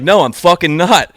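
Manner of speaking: hammed-up defiant retort; quoting the hostile guy in a mock angry voice; imitating angry guy.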